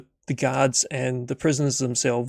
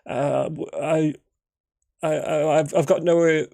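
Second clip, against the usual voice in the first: a mild hint of a frightened stranger, raised and stumbling; shaken stammer; 3 semitones higher than usual. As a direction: stammer out his story, a little shaken. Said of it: "And he's".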